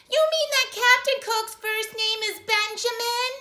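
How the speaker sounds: high, loud, slow clerk; clerk on the phone. Acted. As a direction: mishear it like a daft official.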